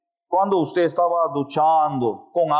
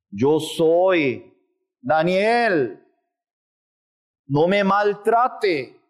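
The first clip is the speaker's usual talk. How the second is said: coaxing ego voice; 3 semitones higher, slower than usual. Acted. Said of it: "Su ego continuamente le engaña".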